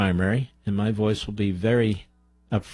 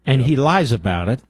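louder, hammering the word lies; indignant; 4 dB louder than usual. Real, not acted. Radio host to caller, angrily condemning the regime's lies. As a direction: call out the liars with heat.

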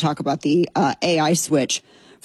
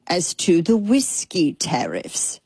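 conspiratorial whisper; slower than usual. Real, not acted. Dropping voice on tariff question.

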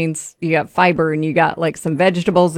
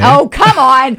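laughing oh come on; 6 semitones higher, 6 dB louder, slower than usual. Real, not acted. Laughing at being tricked.

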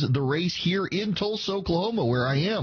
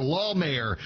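"Law" drawn out, first syllable stressed; 2 semitones higher than usual. Real, not acted. Host repeats the corrected surname, stress on "Law". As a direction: lean hard on "Law" in "Law Mayor". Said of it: "put heavy emphasis on law".

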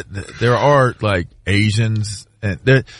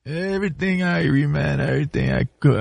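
softer, higher playful patois; Jamaican accent; 4 semitones higher, 6 dB quieter than usual. Retold or imitated. Pilot reassuring him, softer Jamaican patois. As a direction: toss off "Irie" like a local. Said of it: "speak Jamaican".

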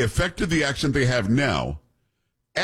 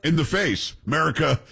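normal talking voice

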